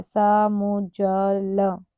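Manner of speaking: समुज्ज्वल very slow, syllable by syllable; spelling it out. Shown as a demonstration. Teacher showing how it is written, समुज्ज्वल drawn out slowly. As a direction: stretch समुज्ज्वल into sa-mu-jjwa-la. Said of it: "देखो कैसे लिखा है".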